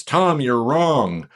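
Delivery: slow mock comment; mock viewer comment. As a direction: drawl it like a grumpy commenter. Viewer comment voiced mockingly.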